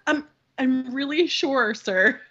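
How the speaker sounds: emphatic refusal. Retold or imitated. Her second, more emphatic refusal.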